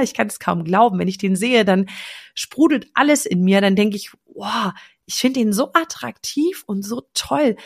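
casual, enthusiastic self-talk; mild everyday gushing; gushing to herself. Shown as a demonstration. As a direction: talk like you're in love. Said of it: "hinzugefügt. Und zwar das, wie ich rede".

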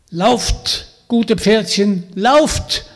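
loud, high urging call. Acted. Vanya calling the freed horses to run. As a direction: shout to set the horses free. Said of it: "rief der starke Vanya".

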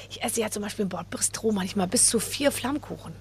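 whispered confession. Real, not acted. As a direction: let us in on an embarrassing secret. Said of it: "confessing in a whisper". (geflüstertes Geständnis)

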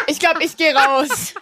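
lachend, langsam. Real, not acted. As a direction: sag es lachend, genervt. Lacht, genervt von der Mutter.

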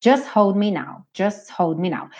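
"Just hold me now" without the T, sung slowly; T dropped. Shown as a demonstration. Teacher repeats the linked phrase. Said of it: "fica no S e já vai pro H".

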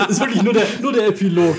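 high and loud, laughing while defending. Real, not acted. Reviewer laughing after being told he spoiled the ending. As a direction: laugh it off, half embarrassed. Caught giving away a spoiler.

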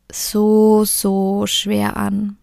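"so schwer" stretched very slowly; drawn-out heaviness. Real, not acted. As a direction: let "so schwer" sink, slow and heavy. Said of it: "repeats to stress heaviness". ("so schwer" ganz langsam gedehnt)

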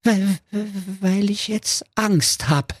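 a scared wolf stuttering; trembling wolf. Acted. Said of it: "erwiderte zitternd".

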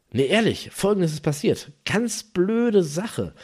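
nachgespielter aufgeregter Anrufer, am Ende hoch und gedehnt. Retold or imitated. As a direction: dem Kumpel mit erhobener Stimme ein Missgeschick beichten. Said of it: "sprach er weiter aufgeregt". (leicht aufgeregt)

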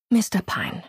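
milder, gentler address; conciliatory, no edge. A narrator's reading. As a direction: soften into his name. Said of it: "sagte sie in versöhnlicherem Ton".

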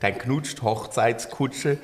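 put-on tongue twister in a light Swabian accent, slow; own Swabian accent. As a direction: recite it slowly with a touch of Swabian. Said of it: "weil ich's in meinem Akzent gesprochen habe". (Zungenbrecher langsam mit leichtem schwäbischem Akzent)

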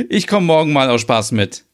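erst hohes Auflachen, dann lauter, fröhlicher Satz; freudig. Acted. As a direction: lach kurz und sag es vergnügt und etwas lauter. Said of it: "Stina sagt freudig". (Stina freut sich aufs Mitkommen, fröhlich und lauter)

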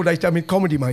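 usual speaking voice

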